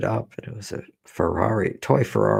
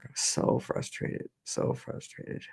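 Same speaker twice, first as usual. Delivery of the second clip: whispered frustration; 6 dB quieter than usual. Retold or imitated. Reliving childhood frustration.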